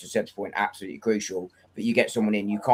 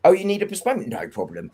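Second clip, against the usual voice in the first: mock accommodating official; 8 semitones higher than usual. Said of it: "the French league goes".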